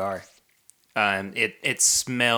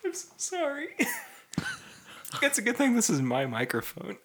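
high laughing apology; giggling apology; 5 dB quieter than usual. Real, not acted. Giggling apology after burp.

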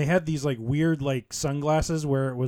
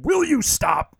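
exasperated high plea; Gorilla Monsoon impression; 12 semitones higher, 6 dB louder, slower than usual. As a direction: beg him to stop, pitched high. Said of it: "Gorilla Monsoon saying to Bobby Heenan".

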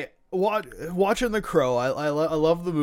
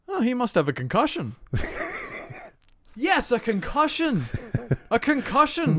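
mock morose commentator; 6 semitones higher than usual. Podcast host mocking the announcer's somber call. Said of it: "Tony Schiavone giving us his most morose call".

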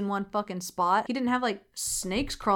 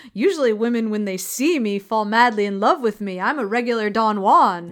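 louder, self-satisfied bragging; smug boast; 6 dB louder than usual. Retold or imitated. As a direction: brag like a vain ladies' man. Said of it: "I can't tell if he's being sarcastic".

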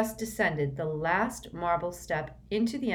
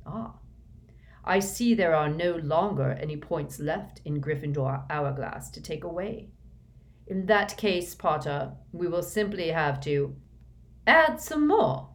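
sneering. Acted. Snape sneers at Harry taking more points, mocking. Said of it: "gave a sneering smile".

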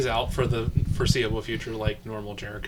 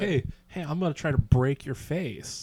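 mock tough guy taunt; 4 semitones higher than usual. S2 acts out the fight banter.

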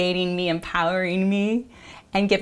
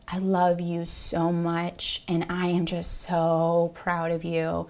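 God's gentle voice; 5 dB quieter, slower than usual. Retold or imitated. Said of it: "hear him say".

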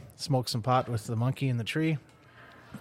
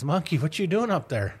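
higher-pitched joke alligator calling upward; mild calling up; 5 semitones higher than usual. Acted. Alligator at the tree's base to monkey, calling up. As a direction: lightly call up to someone overhead.

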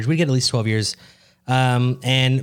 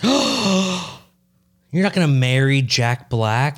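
mock shocked gasp; 2 semitones higher, much slower than usual. Real, not acted.

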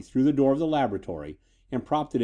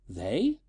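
a rising, questioning single word; murmured inquiry; 3 dB quieter than usual. A narrator's reading. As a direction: let the word lift into a soft question. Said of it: "she murmured inquiringly".

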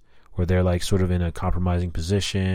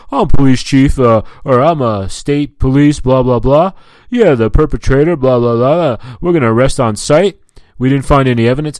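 loud, higher-pitched mock-important cop; 6 semitones higher, 8 dB louder than usual. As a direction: parody a cop bragging on the phone. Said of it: "this jerk-off's in there going".

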